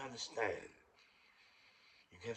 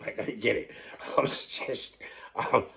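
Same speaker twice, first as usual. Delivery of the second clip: ordinary delivery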